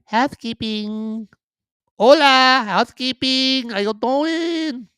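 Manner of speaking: put-on high, drawn-out Hispanic-accented housekeeper call; cleaning lady accent. Host imitating a hotel cleaning lady at the door, high put-on Hispanic accent. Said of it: "I have had a cleaning lady sound exactly like that".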